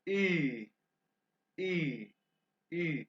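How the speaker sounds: held "ई" as ü, an ee through rounded lips; German umlaut U. Shown as a demonstration. Teacher modelling U with two dots, drawn-out vowel. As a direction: sustain "ई" as a German ü. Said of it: "अभी मैं सिर्फ pronounce कर रहा हूँ".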